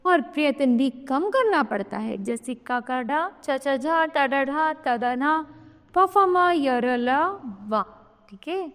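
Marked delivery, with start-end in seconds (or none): 2.2-7.8 का, चा, टा, ता, प said one by one with little breath; unaspirated letters sounded out. Shown as a demonstration. Teacher sounding out short-breath letters for children, each distinct. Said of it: "अल्प कम समय लगता है".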